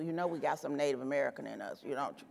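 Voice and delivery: hushed confiding. Retold or imitated. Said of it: "people always whisper to black people".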